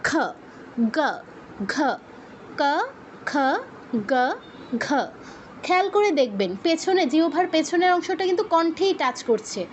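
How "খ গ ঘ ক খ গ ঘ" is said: ক, খ, গ, ঘ each with a short 'uh' vowel; isolated syllables ক, খ, গ, ঘ from the throat; Sanskrit velars. Shown as a demonstration. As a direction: recite ক, খ, গ, ঘ one by one, unrounded. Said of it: "সেমভাবে".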